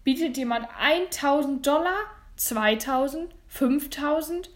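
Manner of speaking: rising, projected bid questions; auctioneer calling bids. Acted. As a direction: stretch the last figure into a question. Auctioneer pushes the price up.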